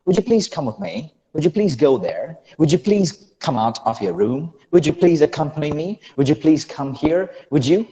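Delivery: American linking, "would you" blended into "wood-joo"; American-accent drill with a j at the word boundary. Shown as a demonstration. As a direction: model American connected speech, rising questions. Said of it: "in American accent, will be".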